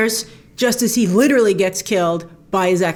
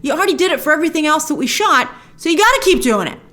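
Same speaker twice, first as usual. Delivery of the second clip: higher-pitched, insistent telling-off; no-excuses retort, pitched up; mock scolding; 5 semitones higher, faster than usual. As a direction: play-act overruling a reluctant actor. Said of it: "I'd be like".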